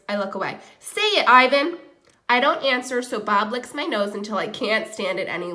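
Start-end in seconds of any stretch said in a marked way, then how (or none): 0.8-1.8 louder, insistent order; commanding. Acted. Dog urges the gorilla to say his name, commanding. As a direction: push him to say it. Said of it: "Bob commands".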